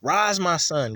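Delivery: a firmer, lifted call to rise; a mother's voice lifting her son up; strengthening. Shown as a demonstration. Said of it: "she put strength in him".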